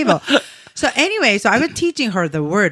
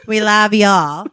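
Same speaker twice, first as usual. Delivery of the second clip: put-on southern accent. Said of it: "Do a southern accent".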